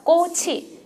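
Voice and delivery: 꼬치, carrying the final consonant over into 치. Shown as a demonstration. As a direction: say 꼬치 as two linked syllables, 꼬-치. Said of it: "두 번째 뭐 들려요?". (받침을 넘겨 "꼬치"로 이어서 발음)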